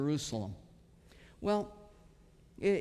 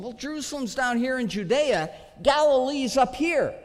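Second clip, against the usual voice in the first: mock skeptic; 4 semitones higher, 5 dB louder than usual. Mock skeptic pointing at map.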